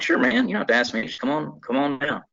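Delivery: high, fast breezy welcome; eager casual invite to an old friend; breezy sure man. Retold or imitated.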